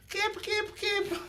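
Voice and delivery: very high repeated coaching shout; Luis excited yell. Retold or imitated. Coach Luis getting excited in the corner, high repeated yell. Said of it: "I love when Luis gets excited".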